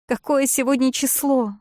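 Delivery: shrill high shriek of «Какое». A narrator's reading. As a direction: shriek the question, «Какое» highest. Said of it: "взвизгнула я". (визгливо, «Какое» на высокой ноте)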